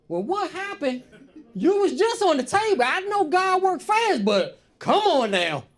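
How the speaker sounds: high, loud, slow demanding; hammed-up nosy relatives; nosy church folk. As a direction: demand an explanation nosily. Nosy black folks demanding.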